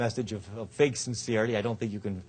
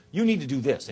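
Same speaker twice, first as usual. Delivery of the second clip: louder, accusatory command to the audience; finger-pointing; 3 semitones higher, 5 dB louder than usual. Shown as a demonstration. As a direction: lecture them with a pointed "You". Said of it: "with the finger pointing".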